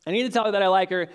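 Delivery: anxious self-pep talk, sped up. Retold or imitated. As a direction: rush the line as if pushing yourself to act.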